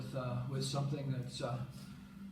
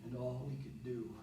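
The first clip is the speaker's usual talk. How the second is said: spoken-word poem, growing softer towards the close; subdued recital with pauses between phrases; poem reading; 5 dB quieter than usual. Acted. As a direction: read it as a poem, quietly winding down. Reads a poem aloud.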